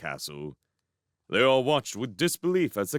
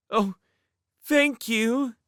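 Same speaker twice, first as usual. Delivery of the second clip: high, bright thank you; grateful; 14 semitones higher, 3 dB louder, slower than usual. A narrator's reading. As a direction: gush it out gratefully. Charmaine thanks the princess.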